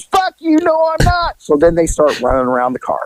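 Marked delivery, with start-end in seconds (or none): 0.0-1.4 retold defiance. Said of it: "She goes".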